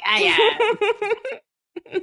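halting attempt at a German accent; German accent, badly faked. Villain admits who he is, badly faked German accent. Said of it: "I cannot mimic his accent".

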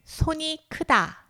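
slow, deliberate 손이 크다; slow clear expression. Shown as a demonstration. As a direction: say 손이 크다 slowly, syllable by syllable. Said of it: "얘기할 표현은 바로". (천천히 또박또박)

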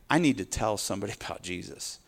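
imagined believer urging a friend to receive; eager witnessing. Retold or imitated. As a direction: coax them to receive it. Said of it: "you're like".

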